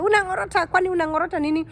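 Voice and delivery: high, fast mock yell in Swahili; imitating his yelling. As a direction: rattle it off like an angry host. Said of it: "he was yelling".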